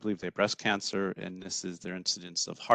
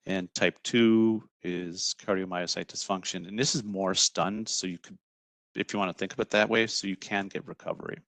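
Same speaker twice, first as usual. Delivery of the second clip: choppy, breaking-up call audio; glitchy robotic call. Real, not acted. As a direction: voice cutting in and out. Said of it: "audio is breaking up a little bit".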